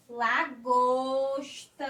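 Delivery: "lagosta" stretched slow, every syllable held; drawn-out reveal. Shown as a demonstration. Teacher revealing the answer to the class, slow and stretched. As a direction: draw out "lagosta" like a big reveal. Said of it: "Lá".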